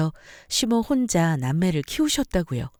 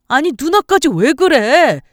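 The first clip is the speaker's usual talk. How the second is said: loud, higher angry husband; furious shout; 5 semitones higher, 8 dB louder than usual. Acted. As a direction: throw them out at the top of his voice. Husband yells at mother and sister. (폭발하듯 크게 소리치며)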